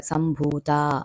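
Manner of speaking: సంభూత with drawn-out oo and final aa; long vowels. Shown as a demonstration. Teacher shows long vowels, సంభూత stretched on bhoo and taa. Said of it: "దీర్ఘం ఉన్నప్పుడు మనం దీర్ఘం పలకాలి".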